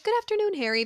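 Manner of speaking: imitating a casual greeting, starting high; breezy mock hello; chill greeting. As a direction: greet lightly in a high voice, then settle. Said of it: "Very chill for".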